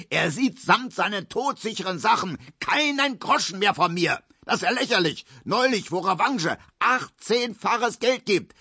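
hoch und erregt, „natürlich“ zügig; wütend. A narrator's reading. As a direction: schimpft sich den Ärger von der Seele. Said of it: "brüllte Herr Markowski". (Markowski schimpft hoch und erregt über verlorenes Geld)

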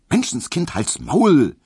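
high, loud snap at the dog; scolding shout. A narrator's reading. Hedwig shouting at the barking dachshund, loud scolding. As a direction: yell at the dachshund to hush. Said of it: "rief Hedwig den Dackel an".

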